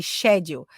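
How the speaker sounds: "schedule" beginning with a SH sound; British pronunciation. Shown as a demonstration. Teacher showing students the word in question, British SH in "schedule". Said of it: "schedule é a pronúncia britânica".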